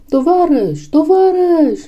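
high, pleading call; desperate cry. A narrator's reading. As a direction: call out to stop them. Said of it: "țipară ele". (strigăt disperat, rugător, pe ton înalt)

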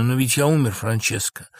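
mildly sorrowful protest; understated sadness; sad. Acted. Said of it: "Лоренцо печально".

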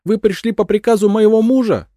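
high, loud frantic accusation; shrieking crazed widow; paranoid madwoman. A narrator's reading. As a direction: cry it out in paranoid fear.

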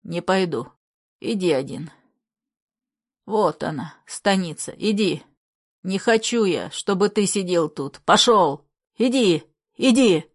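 ниже, глухой сиплый голос старика; прогони внука глухо и сипло. A narrator's reading. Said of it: "Дед уже кричал глухо и сипло". (дед гонит внука, глухо и сипло)

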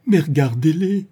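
voix rauque, plus aiguë; ton rauque. Acted. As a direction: scander d'une voix rauque. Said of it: "d'un ton rauque". (la Bretonne scande, rauque et aiguë)

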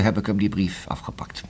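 soft hushed whisper, almost breath. Acted. Detective tells of snatching the letter, in a hushed whisper. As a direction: drop to a secretive whisper.

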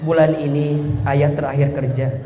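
husband telling his wife he lost his job, low and quiet; worried husband. Retold or imitated. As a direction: confess the job loss in a low voice. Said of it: "kalau suami tuh bilang".

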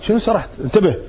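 lightly voiced teacher snapping pay attention; stern teacher. Teacher to a student caught daydreaming, mock-stern rebuke. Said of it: "المدرس يقول لك".

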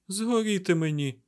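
high, stunned oath; exhaled oath. A narrator's reading. Mat reacts to Rand's confession, shocked gasp of words. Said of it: "видихнув Мет".

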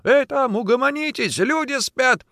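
high, loud call through the wall; annoyed neighbour. A narrator's reading. Woken neighbour scolds quarrelling couple, calling out. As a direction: call out crossly to quieten them.

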